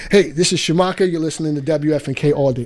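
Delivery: upbeat station ID. Shown as a demonstration. Producer shows the artist the drop, upbeat. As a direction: read it as an upbeat radio drop.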